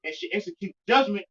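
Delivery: measured, emphatic Bible reading; scripture reading. Real, not acted. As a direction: read the verse out with weight, pausing between phrases. Reads scripture aloud.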